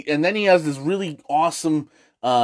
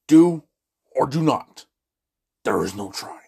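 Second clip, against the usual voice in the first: lightly voiced Yoda, dropping low at the end; a bad Yoda, low on the last phrase; terrible Yoda impression; 3 semitones lower than usual. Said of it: "These are terrible Yoda impressions".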